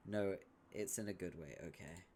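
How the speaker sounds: ordinary delivery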